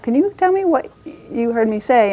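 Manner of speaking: a sweet high ask; high sing-song question. Retold or imitated. Parent gently asking child, lifted high and sweet. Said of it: "that question of like".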